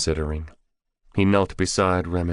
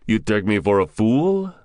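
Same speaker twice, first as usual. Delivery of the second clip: louder, higher indignant snap; sharp question with raised pitch and volume; snapped; 5 semitones higher, 5 dB louder than usual. A narrator's reading. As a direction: snap it as an offended challenge. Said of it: "Zeb snapped".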